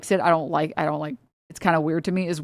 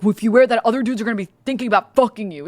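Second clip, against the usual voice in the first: mock jealous boyfriend; much faster than usual. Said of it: "It's like".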